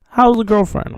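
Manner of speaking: high-pitched teasing question from a friend. Retold or imitated.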